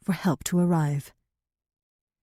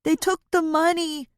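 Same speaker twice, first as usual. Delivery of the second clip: rushed; 9 semitones higher than usual. A narrator's reading. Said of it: "Joshua adds in a rush".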